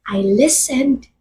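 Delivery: slow, pointed judgment; deadpan refusal. Acted. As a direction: drag out the verdict slowly. Friend refuses motto after cheating ex.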